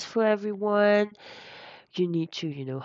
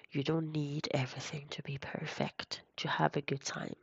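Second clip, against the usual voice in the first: soothing; 4 dB quieter than usual. Real, not acted. Soothing self-compassion advice.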